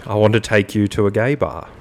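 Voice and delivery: measured, spoken-word song lyric; deadpan lyric recital. Acted. Host repeating lyrics to Jimmy as if official, deadpan. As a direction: recite the lyric as a solemn statement.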